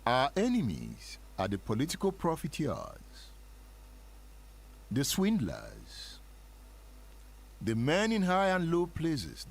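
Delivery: rolling revival rhythm, lingering on the swindlers; a light touch of a preacher's cadence; sermon cadence. Shown as a demonstration. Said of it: "The cadence of a sermon, the rhythm of a revival".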